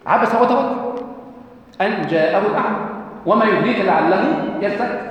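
Quran recitation. Acted. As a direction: intone each verse like tajweed. Recites Sura Abasa.

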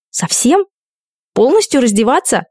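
hoarse with horror. A narrator's reading. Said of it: "охрипнув от ужаса".

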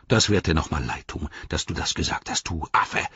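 hissed orc threat, falling away; understated angry hiss; hissing anger. Acted. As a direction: spit the warning at the rival. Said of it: "fauchte er".

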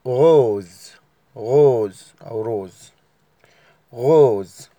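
"غوز" بالراء الفرنسية; French rose. Shown as a demonstration. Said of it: "اللون رقم ستة".

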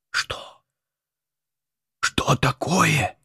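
put-on slow, alarmed whispering old abbot; agitated whisper. A narrator's reading. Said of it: "шептал Феодосий взволнованным голосом". (взволнованный шёпот)

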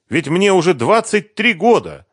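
put-on lightly lamenting young woman; Sveta's voice. A narrator's reading. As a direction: state it brightly.

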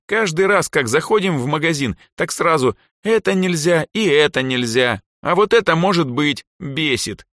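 put-on high, loud girl's complaint; exasperated rant. A narrator's reading. Elsa's exasperated complaint about parents.

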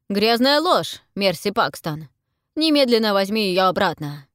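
loud, angry accusation. A narrator's reading. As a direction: shout down the liar. Bessie accuses Mercy after slap.

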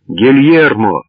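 restrained version of a joyful cry across a hall; happy shout. A narrator's reading. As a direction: call the name happily, without full volume. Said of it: "счастливый голос Инес, закричавший на весь зал".

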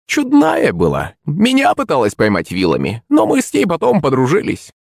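put-on a hag recalling an old friend; fond crone. A narrator's reading. Старуха вспоминает Агафью. (высокий протяжный голос старухи)

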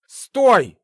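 loud commanding cry; shout. Acted. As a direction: stop him with one loud word. Artur yells to stop Gleb.

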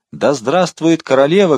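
loud, high, drawn-out cheer; shout. A narrator's reading. Coadjutor leading the crowd's cheer, loud high shout. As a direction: raise pitch and volume, stretching the cheer. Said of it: "крикнул Гонди".

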